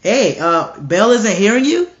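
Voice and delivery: mock-innocent question, rising high at the end. Elijah taunting Baal's priests, mocking. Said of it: "He mocked them like".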